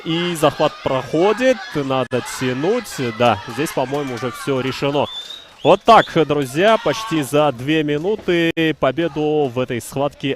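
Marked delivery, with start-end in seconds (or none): 5.6-10.3 excited. Real, not acted. Commentator on a sudden finish.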